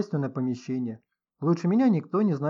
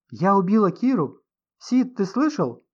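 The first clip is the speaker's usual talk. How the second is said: high, loud, slow indignant cry; outraged disbelief; 6 semitones higher, 6 dB louder, slower than usual. A narrator's reading. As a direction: protest the accusation in shock. Accused writer protests indignantly. (возмущённое изумление)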